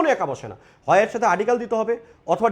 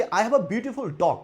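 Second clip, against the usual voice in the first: each word stretched out very slowly; slow model sentence; much slower than usual. Shown as a demonstration. Teacher dictating the example sentence to the class, very slowly. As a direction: dictate it so students catch every word. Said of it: "ভালো করে খেয়াল করবেন".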